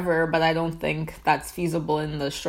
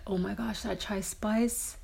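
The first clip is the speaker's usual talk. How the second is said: savouring whisper; 3 semitones higher, 5 dB quieter than usual. Real, not acted. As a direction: breathe it out in delight. Savouring tea.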